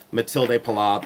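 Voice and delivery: "Matilde Pilar" said as a full Spanish-style name; own pronunciation. Shown as a demonstration. Host giving her way of saying a designer's name, "Matilde" in full. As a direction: say "Matilde" in three syllables, ending in "day". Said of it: "That's the way I pronounce her name".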